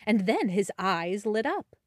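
plain reading voice

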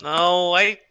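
slow, drawn-out horse mare; old horse voice. Acted. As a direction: slowly recall as an aging horse. DM voicing Maxine the horse.

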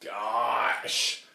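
drawn-out, very slow weary sigh of words; tired oh-my-gosh at the flaky guy; exasperated. Real, not acted. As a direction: let it drag out in disbelief. Fed up with the guy.

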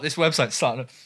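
talking through a burp; words pushed out on a burp. Real, not acted. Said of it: "sorry, I'm burping".

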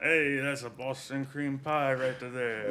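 put-on slow, drawn-out Boston accent. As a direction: lay on a thick Boston accent. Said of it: "that's my Boston accent".

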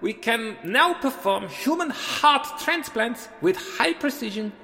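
measured speech in a put-on Swiss accent. Visiting surgeon closing his symposium talk, Swiss accent. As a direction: lecture in a thick Swiss accent. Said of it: "Look at me with my funny accent".

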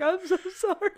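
very high, pitying imitation; sad sympathy. Dad consoling his crying daughter, sad imitation. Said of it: "he's all sad for me".

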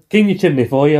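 lightly mimicked fake London accent; a hint of stage Cockney chimney sweep; mock Cockney. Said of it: "That, that one".

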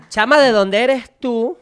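excited loud question to the new guest; lively host question. Real, not acted. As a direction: ask it like an eager radio host. Host loudly greets guest.

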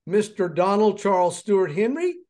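high, loud teacher calling on a pupil; teacher calling roll. Retold or imitated. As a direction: call the full name like a strict teacher. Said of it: "this is how Missus Bellamy would say it".

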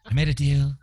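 comic presidential impression; mock politician's brag; Donald Trump. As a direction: play the boastful deal-maker president. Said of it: "Is literally the best impression ever".

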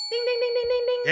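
rapid high-pitched bell imitation; high ringing "ding". Host signals a right answer, high imitated bell. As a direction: ring out dings like a winner's bell.

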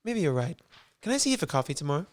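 lightly put-on drifting American accent; amateur accent sliding from British to American; melted American accent. Lisa asking Mark for coffee, melted American accent. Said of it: "like, melted American".

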